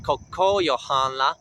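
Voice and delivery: koko yohan la with a nasal N, no guttural H. Shown as a demonstration. Teacher correcting own slip, nasal N in yohan. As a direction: keep yohan's H light and send its N through the nose. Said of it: "it's just a nasal N".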